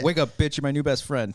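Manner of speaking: loud, lively quoted outburst; rowdy buddy shout; mock wake-up yell. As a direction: call it out loudly, playfully. Mock quote of a movie line.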